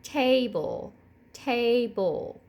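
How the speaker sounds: Table said in two clear beats, ta-ble; syllable demo. Shown as a demonstration. Teacher modelling Table, hand under chin. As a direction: stretch Table into ta then ble. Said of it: "and say".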